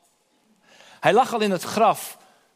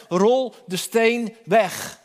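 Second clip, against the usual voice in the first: solemn command; much slower than usual. Acted. Jesus commands at the tomb.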